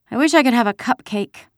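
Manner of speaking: put-on high child voice, longing; wishful little girl. A narrator's reading. Kirsty longs for treats in the kitchen, wishfully. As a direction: wish aloud in a small girl's high voice. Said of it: "Kirsty sighed".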